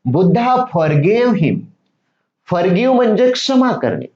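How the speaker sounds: usual speaking voice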